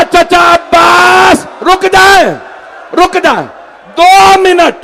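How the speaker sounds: high, drawn-out wailing appeal; retold crying plea. Preacher voices the orphan girl begging her uncle, wailing plea. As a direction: cry out desperately as the weeping child, imitated at full pitch. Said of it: "बच्ची ने रो के कहा".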